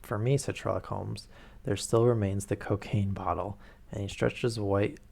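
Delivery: steady read-aloud narration with quoted dialogue; reading the novel aloud to the stream, evenly paced; story narration. A narrator's reading. Streamer reads Sherlock Holmes aloud to her chat, narrating steadily.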